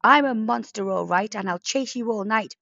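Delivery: the cat plays the monster to scare them; playful monster threat. Acted. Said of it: "Mabel cried".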